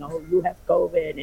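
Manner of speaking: lightly voiced evil nurse, plain level; a hint of a snide nurse. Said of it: "an evil nurse in there saying".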